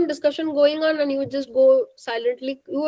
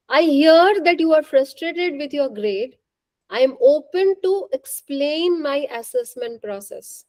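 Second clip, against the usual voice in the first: assertive; 2 semitones higher than usual. Shown as a demonstration. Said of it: "Typical assertive will use some language".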